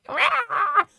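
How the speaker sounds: sudden high shriek of a yelp; imitating a screaming commentator; mock commentator scream. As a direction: shriek like a pundit losing it on air. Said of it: "scream his little fucking head off".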